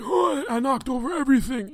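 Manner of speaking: put-on very high distressed old-man voice; flustered customer. Clumsy customer after knocking over everything, high flustered wail. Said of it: "He's like".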